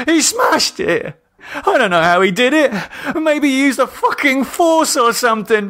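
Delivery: high, loud, frantic yelling; hysterical shouting. A narrator's reading. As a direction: shout it in blind panic.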